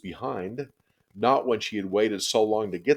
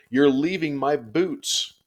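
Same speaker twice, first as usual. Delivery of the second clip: high, loud, slow wail; 8 semitones higher, 5 dB louder, slower than usual. A narrator's reading. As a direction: drag out the wail in despair. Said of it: "she wailed".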